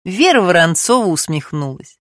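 ordinary delivery

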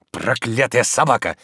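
slow curse through the teeth; grinding teeth. A narrator's reading. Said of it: "проскрежетал зубами Обломов". (скрежеща зубами)

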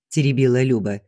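usual speaking voice

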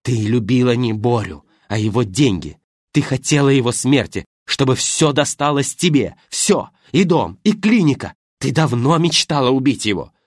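wife hurls accusations at the widow, loud; angry accusations. Acted. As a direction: throw the charges in her face. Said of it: "гневные обвинения".

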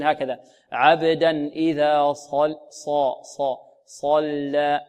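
صا and صلى heavy, lips spread, very slow; heavy unrounded sad. Shown as a demonstration. Teacher demonstrating emphatic sad slowly. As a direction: stretch صلى out, heavy and open. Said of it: "هكذا تفخيم وإطباق بدون ضم الشفتين".

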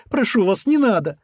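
very high, weepy begging; high-pitched tearful entreaty; tearful plea. A narrator's reading. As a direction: plead as a crying woman. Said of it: "снова заплакала женщина".

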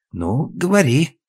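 slow weary sigh of a line; tired husband, slow. A narrator's reading. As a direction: wearily give in to her. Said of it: "устало спросил Глеб".

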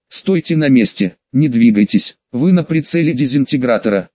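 lightly voiced emotionless robot; a hint of a cold machine voice. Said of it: "голосом робота, напрочь лишённым эмоций".

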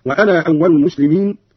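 وأنا with its final alif sounded, wa-anaa; madd and qasr. Shown as a demonstration. Teacher showing Qalun's first option, وأنا as wa-anaa. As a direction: sound the end of وأنا as a long aa before أول. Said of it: "فيه المد والقصر هكذا".

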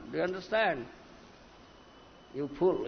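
ordinary talk, nothing marked

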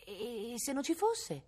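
high, very slow echo of the question; mock pondering. Villager echoes the doubt about the brigand, mock pondering. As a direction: draw it out as a rising musing, then drop.

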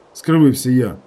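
ordinary delivery

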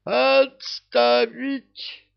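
very high, drawn-out shouted command; desperate yell. A narrator's reading. King yelling to stop the fighting. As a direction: stretch the cry to halt them. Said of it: "завопил король".

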